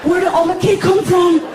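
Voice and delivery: put-on high, slow little-boy voice; mock sleepy kid. Frankie waking up at three asking about cake, high and slow. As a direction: drag it out like a groggy child.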